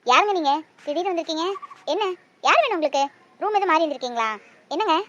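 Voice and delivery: suspicious. Acted. Mother confronts stranger at door.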